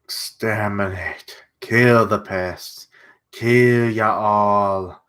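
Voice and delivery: slow, drawn-out bad German accent; menacing mock German villain, very slow; shitty German accent. German villain vowing to kill the pests, in a slow bad German accent. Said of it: "give him a shitty German accent".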